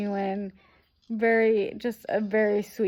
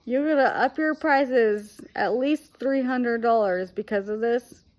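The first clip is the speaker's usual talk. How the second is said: retold indignant protest; 2 semitones higher, 3 dB louder than usual. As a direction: retell your outrage at being overcharged, drawing it out. Retold protest at hotel price hike.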